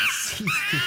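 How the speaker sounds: squeaky cartoon yelp; high squeaky shout.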